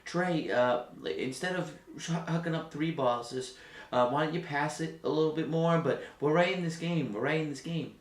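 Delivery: soft, gentle coach urging the team; lightly voiced coach coaxing his players; mild coach pep talk. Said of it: "I'll tell you what Quinn would be saying".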